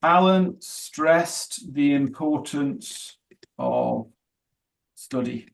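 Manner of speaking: slow, deliberate model sentence; slow example sentence. Shown as a demonstration. Teacher reading a model sentence to the class, slow and deliberate. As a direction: spell the example out slowly for students. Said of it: "it's like this".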